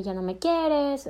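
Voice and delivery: mock whine. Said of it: "hacerle el show de".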